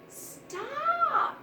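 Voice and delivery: high, sharp cry of stop; cried stop. A narrator's reading. Little mouse crying out to stop the quarrel, high. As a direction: shout it to break up the fight. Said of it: "cried the little mouse".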